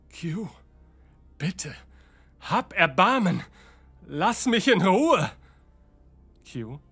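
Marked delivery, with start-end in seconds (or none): 0.1-5.3 desperate. Acted.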